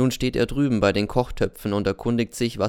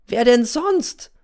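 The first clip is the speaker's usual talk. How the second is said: slow, loud, much higher accusing yell; angry shout; 13 semitones higher, 6 dB louder, slower than usual. Acted. Boy Z accuses N during the fight, yelling slow and high. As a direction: hurl the question at him. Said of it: "schreit der Z".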